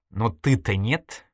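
sighing. Acted. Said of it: "вздохнула Ирина".

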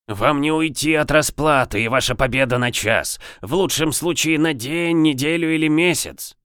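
a lightly voiced hoarse, gurgling governor; lava golem. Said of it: "хриплый, булькающий голос губернатора".

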